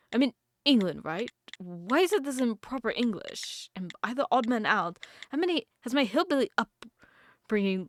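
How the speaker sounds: put-on wobbly posh British accent; attempted British accent. Lost newcomer puzzling over the building, shaky attempt at British accent. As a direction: try a posh British accent, not quite landing it. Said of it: "terrible British accent".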